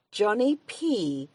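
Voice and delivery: put-on slow, drawn-out Mayo accent. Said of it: "This is my Mayo accent".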